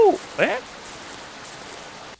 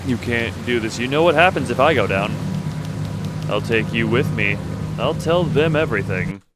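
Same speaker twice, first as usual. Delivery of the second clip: pleading killer. Acted. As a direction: justify the murder, pitched up and pleading. Killer threatens cop.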